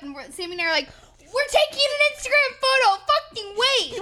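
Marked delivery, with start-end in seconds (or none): 1.2-4.0 put-on higher and a bit louder, yelling down at the kids; a playful retold shout to hurry off; telling kids off from the top of the slide, mock yelling. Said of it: "yelling at these kids".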